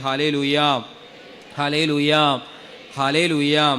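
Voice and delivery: loud, ringing Hallelujah shouts. Shown as a demonstration. Preacher leading the congregation in a loud shout. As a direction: call it out loud and lead the crowd. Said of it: "ഉറക്കെ പറഞ്ഞേ".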